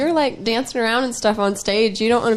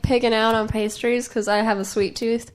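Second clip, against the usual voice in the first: talking through a muffin; words round a bite of food; mouth full; 4 dB quieter than usual. Real, not acted. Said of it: "Don't talk with your mouth full".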